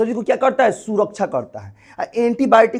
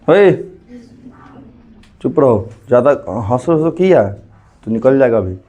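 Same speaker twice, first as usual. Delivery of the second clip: loud, lower-pitched telling-off; scolding; 7 semitones lower, 4 dB louder than usual. Real, not acted. Teacher to students laughing in class, scolding. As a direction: rebuke noisy pupils, firm and loud.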